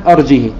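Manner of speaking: "أرجه" without hamza, short final i; short kasra on ha. Shown as a demonstration. Teacher demonstrating Qalun's reading, "أرجه" with short unlinked i. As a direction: say "أرجه" as arjihi, last vowel short. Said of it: "بدون همزة مع كسر الهاء بدون صلة".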